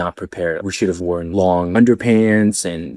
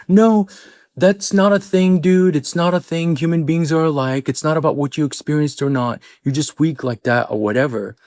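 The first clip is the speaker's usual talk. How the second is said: much higher mocking teammate voice; 6 semitones higher than usual. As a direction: scoff at him like a rugby teammate. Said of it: "They're like".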